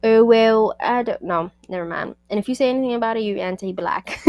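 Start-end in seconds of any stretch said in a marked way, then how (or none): 0.0-1.5 put-on botched Irish accent with a louder opening; attempted Irish accent. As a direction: launch loudly into a bad Irish accent, then falter. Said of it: "Let me try again".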